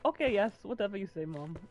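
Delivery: British accent attempt slipping into Indian; mock a dutiful son in a botched Indian-sounding British accent. Mocking the game character's reply to Mom, botched British accent. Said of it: "did an Apu accent".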